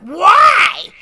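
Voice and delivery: high, loud, drawn-out whine; exaggerated bratty teenage yell; whiniest teenage voice. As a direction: wail it like an outraged teen. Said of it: "in the whiniest teenage voice ever".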